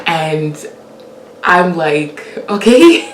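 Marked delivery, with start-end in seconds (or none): 2.5-3.1 high mock okay. Mock calm while seeing flames.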